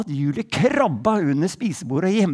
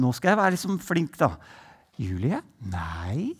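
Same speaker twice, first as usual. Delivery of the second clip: gentle; 4 semitones lower, 4 dB quieter than usual. Retold or imitated. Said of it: "Var veldig sånn forsiktig".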